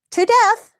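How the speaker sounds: high, loud and aghast; shocked. Real, not acted. Instructor tells students, loud with shock. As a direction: stress the horror of it, up high. Shocked retelling of roommate killing.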